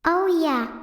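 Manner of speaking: normal talking voice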